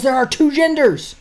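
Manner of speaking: high, hammed-up declaration; mock proud answer. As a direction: announce it like a cartoon figure. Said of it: "He says".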